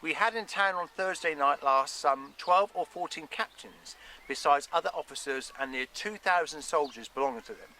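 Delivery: put-on measured reading of an old letter; reading a letter aloud. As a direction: read out a historical document, phrase by phrase.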